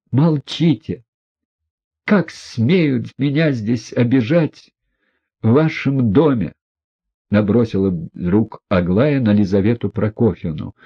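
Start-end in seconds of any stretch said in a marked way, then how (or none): 0.1-6.5 hysterical outburst. A narrator's reading. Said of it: "в том истерическом состоянии".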